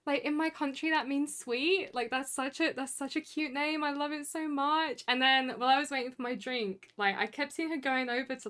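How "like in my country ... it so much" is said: imitating barista. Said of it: "but she went".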